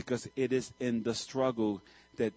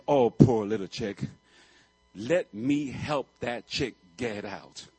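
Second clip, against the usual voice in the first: pity; 2 semitones lower, 4 dB louder, slower than usual. Retold or imitated. New Yorker pitying the chick.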